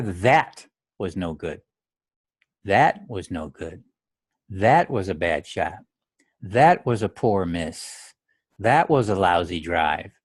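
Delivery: detached observer. Shown as a demonstration. Golfer calmly observing his own bad shot. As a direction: say it like you're just noting it. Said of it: "Do you hear the difference in my voice".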